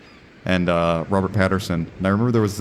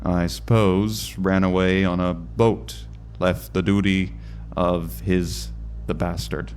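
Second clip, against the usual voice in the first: put-on slow old-timey Irish lighthouse boatman; hammed-up Irish accent, taking it slowly. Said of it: "I don't know why I've made him Irish".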